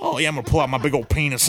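fast, lightly voiced porn dude; porn actor voice. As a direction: rattle it off like a porn guy. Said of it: "I'm doing the voices for him".

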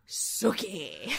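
low drawn-out call of the name; Vampire Bill impression. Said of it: "walk through the door and go".

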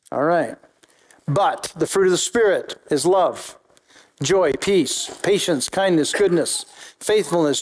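measured reading of scripture aloud. Acted. Pastor reading Galatians to the church, measured and steady. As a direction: read the passage steadily to the congregation.

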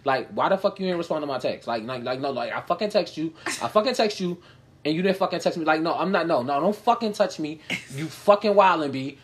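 mock New York tough-guy scolding; New York accent. New York guy scolding his girlfriend over texts, light New York accent. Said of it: "the way them niggas talk".

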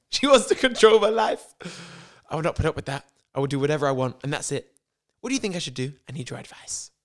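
hammed-up start, settling into drifting American accent; melted American accent. Lisa ranting to Mark about her mother, melted American accent. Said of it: "like, melted American".

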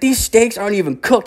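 high, indignant complaint; mock outrage in a high voice; imitated yelling. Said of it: "he's, like, yelling at".

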